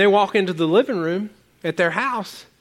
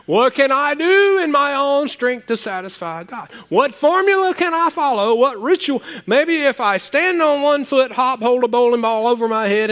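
mock anxious seeker; 5 semitones higher than usual. Mocking ritual-seekers' questions.

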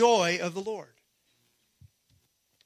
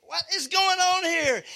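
higher, incredulous question; acted bewilderment; 8 semitones higher than usual. Prophet reacting to a sobbing crowd, acted bewilderment. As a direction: act out a baffled prophet. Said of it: "And he goes".

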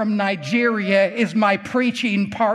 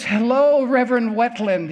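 lightly imitated Ghanaian accent, raised pitch; 3 semitones higher than usual. Pastor from Ghana phoning the preacher, Ghanaian-accented greeting. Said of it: "He's talking with an accent".

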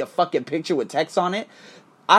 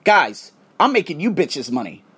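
retold defensive rant; 3 semitones higher than usual. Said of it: "I got into defense mode".

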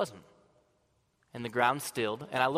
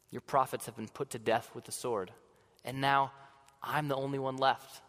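sad; 4 dB quieter than usual. Acted. Elijah repeating his answer to Yahweh, softly and sadly. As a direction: let the same words sink in quiet grief. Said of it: "I was just sad".

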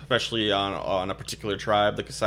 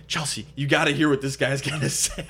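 laughing quote; 2 semitones higher than usual. Retold or imitated. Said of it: "He's like".

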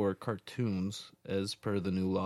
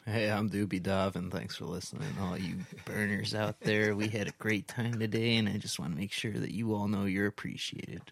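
mellow radio host voice. Pretend. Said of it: "If you actually talk like that".

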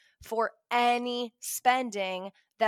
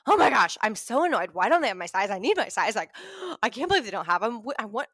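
loud, exasperated rant over missing size; annoyed outburst; 5 dB louder, faster than usual. Retold or imitated. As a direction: vent like a frustrated shopper, half laughing. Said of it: "Instantly, I'm like".

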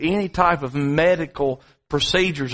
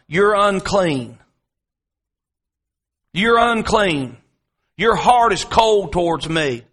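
leper's cry; 3 semitones higher, 3 dB louder than usual. Acted. Holy Spirit crying the leper's cry to the sinner, loud. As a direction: cry it out like the Spirit convicting the heart. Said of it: "crying the leper's cry".

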